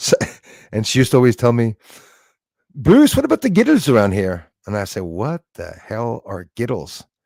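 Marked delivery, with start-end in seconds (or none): 2.7-4.5 put-on Irish woman's accent, high and sing-song. Retelling what an irish lady used to ask him, imitating her irish accent. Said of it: "I loved the way she said it. I love the accent".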